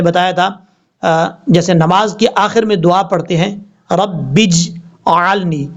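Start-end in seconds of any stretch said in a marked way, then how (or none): 3.9-5.7 रब्बिज आलनी with a zabar on jeem; wrong reading. Shown as a demonstration. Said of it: "लोग गलती कर जाते हैं".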